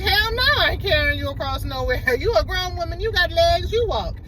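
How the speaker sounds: high, hammed-up indignation; mock indignant refusal. Boyfriend refusing to carry girlfriend across water, mock indignant. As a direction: imitate an incredulous man flatly refusing.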